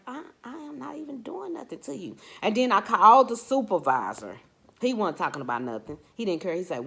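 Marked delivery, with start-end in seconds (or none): 0.0-2.2 pleading protest. Retold or imitated. Defending herself to the rude clerk.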